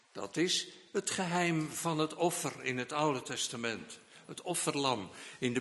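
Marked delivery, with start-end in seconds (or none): none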